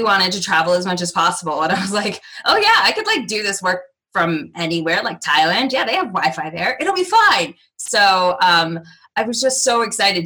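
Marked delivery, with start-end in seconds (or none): 2.4-7.5 breezy, naive optimism; tossed-off and upbeat; carefree excitement. Retold or imitated. Naive younger self, quoted.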